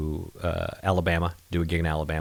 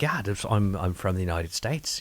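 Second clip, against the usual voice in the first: put-on Irish accent; 4 dB quieter than usual. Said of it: "how is my accent".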